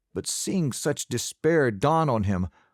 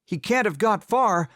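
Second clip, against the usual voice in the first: raised, urgent rehearsed line; practiced alarm call; 10 semitones higher than usual. A narrator's reading. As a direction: blurt it out high like an alarm. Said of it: "ready to grab my musket and say".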